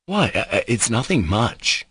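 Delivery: a touch of alarm, hesitating; startled protest. Acted. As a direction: play it down, mildly flustered. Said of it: "frightened at this alarm".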